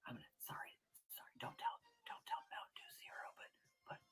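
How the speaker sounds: hushed playful confiding whisper; conspiratorial, very soft aside; secretive whisper. Pretend. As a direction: whisper it like a secret between friends. Shares secret, hiding from Mountain Dew Zero.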